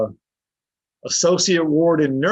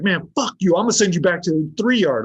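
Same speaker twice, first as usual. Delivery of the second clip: higher-pitched annoyed dismissal; retold pissed-off warden; 5 semitones higher than usual. Warden sending inmate back to the yard, pissed off. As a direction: imitate an exasperated official, mildly heated. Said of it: "He was pissed".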